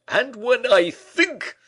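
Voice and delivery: Porthos crying out. A narrator's reading. Porthos stamping the floor over having no clothes, crying out. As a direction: rage building as he stamps. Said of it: "cried Porthos, stamping on the floor".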